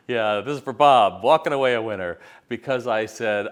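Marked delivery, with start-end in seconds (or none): 0.1-2.2 radio announcer dedication. Retold or imitated. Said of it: "he went out to all the stores and he goes".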